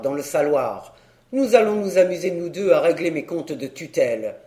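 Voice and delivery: a hint of a hearty old uncle; lightly voiced blustery uncle. Uncle sending his ward for the register, mildly blustery. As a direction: answer with light, knowing bluster. Uncle's dialogue in narrated story.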